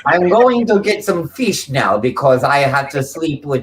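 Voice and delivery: put-on German character accent; German accent through a tight jaw. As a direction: play it straight with a German accent. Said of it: "You sound like Hitler's wife".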